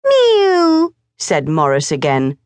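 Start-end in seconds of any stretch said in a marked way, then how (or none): 0.0-1.0 high mocking mew; mock the cat with scorn; scornful mew. A narrator's reading. Morris mocks the cat, high scornful mew.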